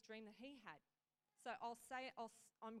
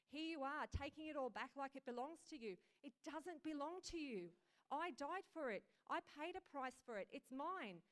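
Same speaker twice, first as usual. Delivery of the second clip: louder, urgent preaching as Jesus; fervent rebuke; 3 semitones higher, 6 dB louder than usual. Acted. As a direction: drive it home, urgent and passionate. Jesus voiced rebuking and urging.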